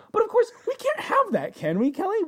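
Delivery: playful put-on despair; mock lament. Mock lament with high pitch.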